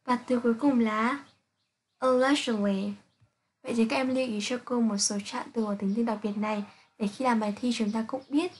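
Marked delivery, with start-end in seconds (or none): 2.0-2.9 "allegedly" with -id- as its own syllable; four-syllable "allegedly", uh-LEJ-id-lee. Shown as a demonstration. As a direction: sound out the ED inside "allegedly". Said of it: "trạng từ cũng có tận cùng đọc là it".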